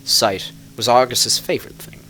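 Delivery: measured storyteller telling a dark fairy tale; story narration. A narrator's reading. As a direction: draw listeners into a legend. Reads a fairy-tale style tale.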